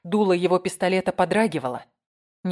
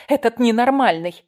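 panicked cry; 5 semitones higher, 8 dB louder than usual. A narrator's reading. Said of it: "задыхалась".

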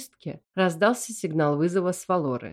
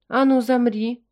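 suspicious command, higher and louder; mother suddenly suspicious of her son; 6 semitones higher, 5 dB louder than usual. A narrator's reading. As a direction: freeze him with a wary order. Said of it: "подозрительно произнесла мама".

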